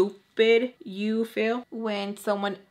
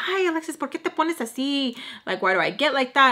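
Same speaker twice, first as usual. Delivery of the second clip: higher, scolding Spanish-English teacher; scolding mom voice; 5 semitones higher than usual. Retold or imitated. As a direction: voice her scolding, pitched up. Missus Peach scolding, voiced.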